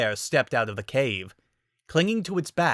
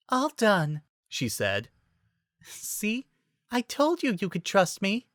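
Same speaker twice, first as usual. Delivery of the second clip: gentle Fluttershy voice; 9 semitones higher, slower than usual. A narrator's reading. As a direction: reassure the bear gently. Fluttershy reassures bear.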